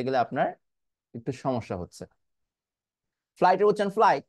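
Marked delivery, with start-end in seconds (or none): 4.0-4.2 "ফ্লাই" cut off where the T would be; silent final T. Shown as a demonstration. Teacher modelling flight for students, silent final T. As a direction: end "ফ্লাই" abruptly, T unreleased. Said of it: "লাস্টে টি উচ্চারণ হবে না".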